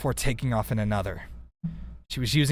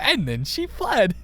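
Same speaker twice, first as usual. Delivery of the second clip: imitating her own odd read; 9 semitones higher than usual. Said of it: "I read it like that".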